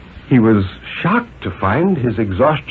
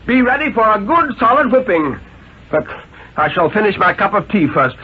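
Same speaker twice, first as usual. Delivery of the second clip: a cold husband promising a whipping; menacing Mr Carter; 12 semitones higher than usual. Acted. Mr Carter threatens the women.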